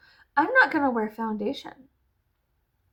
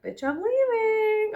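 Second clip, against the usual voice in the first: decisive; 11 semitones higher, 4 dB louder, slower than usual. Retold or imitated. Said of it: "my thought was like".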